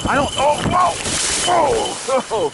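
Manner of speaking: surprised whoa as she tips over; startled cry while falling; sudden whoa. Real, not acted. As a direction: caught off guard, tumbling.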